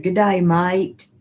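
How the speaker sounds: lightly voiced Aussie greeting; put-on Australian accent. Host reads viewer's greeting in mock Australian accent. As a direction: read it with a playful Australian twang. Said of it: "I have to say that in an accent".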